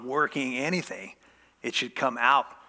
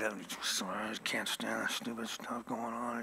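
slow, whispered secret grumble; grumbling under breath; 3 semitones lower, 11 dB quieter, slower than usual. Retold or imitated. Pastor showing the congregation secret murmuring, whispered grumble. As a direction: mutter it to yourself like a hidden complaint. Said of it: "you just mumbling to yourself".

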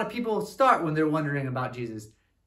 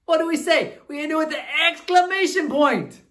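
excited; 8 semitones higher, 4 dB louder than usual. Shown as a demonstration. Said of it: "when we're excited about something".

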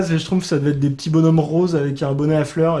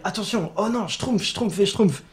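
higher, slow and drawn out, a lightly voiced little Smurf; imitating panicked Smurfs; 6 semitones higher, 3 dB quieter, slower than usual. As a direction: play the alarmed Smurf, stretching each Schtroumpf. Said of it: "on les entend parler". (Schtroumpf paniqué imité, aigu et lent)

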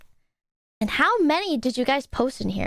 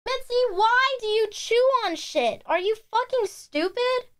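high, incredulous scolding of a pet; exasperated scolding; 9 semitones higher than usual. Real, not acted. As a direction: scold the cat in disbelief. Scolding the cat.

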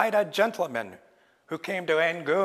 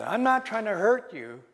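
pleading Raven; 4 semitones higher than usual. Acted. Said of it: "And said".

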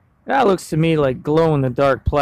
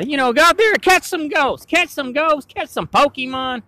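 playful sign-off; 8 semitones higher than usual. Real, not acted.

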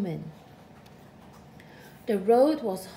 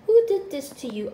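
shocked; 5 semitones higher, 9 dB louder, faster than usual. A narrator's reading. Shocked lizard asks.

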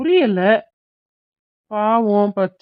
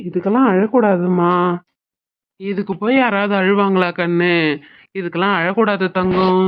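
put-on gentle coaxing of an upset child; tender parental consoling; soothing. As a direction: comfort a crying child, easy and unhurried. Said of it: "சமாதானப்படுத்துங்க".

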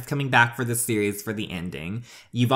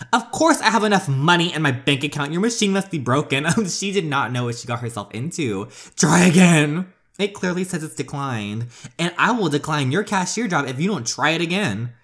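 put-on indignant rich girl; 4 semitones higher than usual. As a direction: snap back like a spoiled heiress. Bella argues with the cashier.

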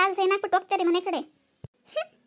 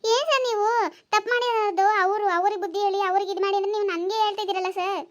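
indignant protest. Acted. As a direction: push back at the officer.

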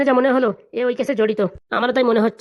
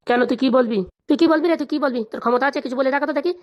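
angry challenge; 3 semitones higher than usual. Acted. Quarrel, challenging the other to speak.

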